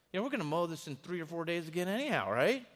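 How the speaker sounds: a father scolding his son over the mowing, building to a loud peak; retold angry diatribe. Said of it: "I'm just going in a diatribe".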